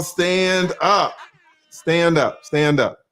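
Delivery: loud repeated rallying call; rally the crowd to stand. Acted. Hype man calling the pearls to stand up loudly.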